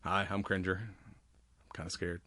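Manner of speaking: soft, slow, timid cat; scared cat voice. Retold or imitated. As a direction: whimper it like a frightened cat. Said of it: "not trying to do a cat voice".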